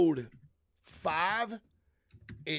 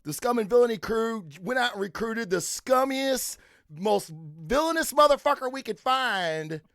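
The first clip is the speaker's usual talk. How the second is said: show host intro; 3 semitones higher than usual. Acted. Host welcomes listeners to the season's last episode, hyped-up intro. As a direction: kick off the show with punched-up key words.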